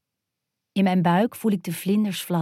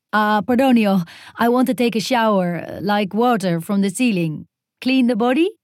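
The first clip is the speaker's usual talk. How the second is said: over-explaining; 3 semitones higher, 4 dB louder than usual. Acted. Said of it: "Thanks for explaining".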